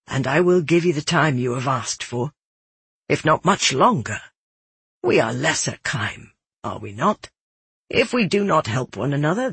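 relent gently, as one neighbor to another; gentle sympathy. Acted. Jeweler grants the girl time, gently sympathetic.

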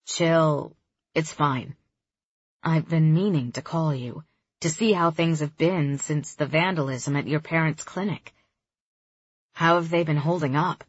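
easygoing guy on the phone; young man voice. Acted. Kareem voiced.

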